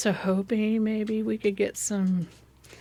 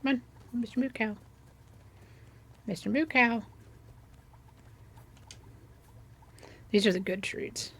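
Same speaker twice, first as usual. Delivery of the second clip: higher, playful pet-calling voice; calling an animal; 4 semitones higher, 4 dB quieter than usual. Pretend. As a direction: call the cow along in mock coaxing. Calling the game cow along.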